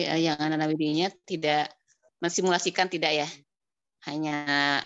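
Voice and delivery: breaking up over a bad line; choppy call audio dropping out; connection cutting out. Real, not acted. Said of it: "Terputus-putus".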